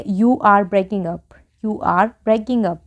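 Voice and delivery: very slow, word by word; slow model sentence. Shown as a demonstration. Teacher modelling an English sentence for Hindi learners, very slow. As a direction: say it slowly so learners can follow. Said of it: "तो हम क्या बोलेंगे".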